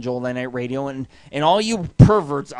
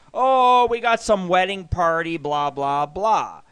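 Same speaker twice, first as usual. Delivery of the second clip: mocking mimicry. Customer mimicking lounge staff's excuse, mocking. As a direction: parody a feeble excuse.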